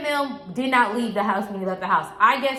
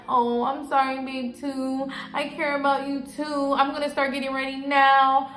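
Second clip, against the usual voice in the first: higher, even-toned voice of a friend on the phone; mock phone sweet-talk; 4 semitones higher than usual. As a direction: mildly imitate a friend soothing her boyfriend. Retelling friend's phone call to boyfriend.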